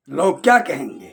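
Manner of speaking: mock their fear of gossip; mocking worry. Preacher mocks congregation's fear of gossip, mock timid worry. Mimicking fearful worry about people.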